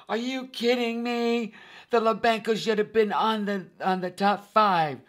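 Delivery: high, loud incredulous cry; outraged disbelief. Retold or imitated. Viewer protesting the Lobanco's cut, loud high outrage. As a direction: shout it like a fan who can't believe it. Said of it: "you're gonna be going".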